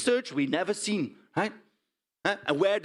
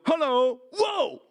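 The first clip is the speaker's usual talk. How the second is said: high, loud hail round the corner; calling out; 6 semitones higher, 3 dB louder, much slower than usual. Retold or imitated. Farmer calling to a visitor at his door, calling out. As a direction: call out hello, jumping to a startled whoa.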